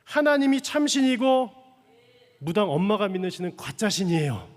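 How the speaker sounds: retold fearless declaration, preached out forcefully; bold proclamation. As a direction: declare it boldly, loud and high. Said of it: "이렇게 담대하게 선포했대요".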